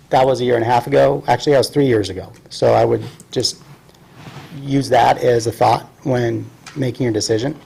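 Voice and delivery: talking around a mint; words a little blurred by a mint; mint in mouth. Real, not acted. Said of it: "Sorry, I got a mint in my mouth".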